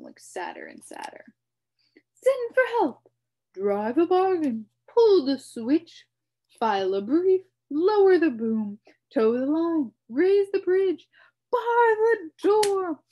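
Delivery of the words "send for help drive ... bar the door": high, loud, rapid-fire bug shouts; frantic shouting. A narrator's reading. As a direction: shout each idea, jumping about. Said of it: "shouted the bug".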